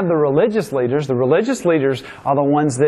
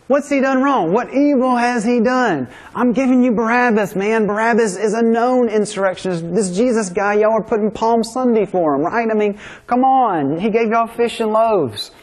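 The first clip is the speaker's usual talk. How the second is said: pleading Pilate; 5 semitones higher than usual. Retold or imitated. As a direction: beg the crowd to see reason, as the governor. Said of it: "He pleads with the crowd".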